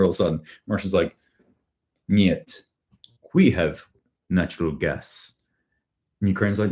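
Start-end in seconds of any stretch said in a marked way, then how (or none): 2.1-5.3 bad Russian accent. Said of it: "I apologize about my shitty accents".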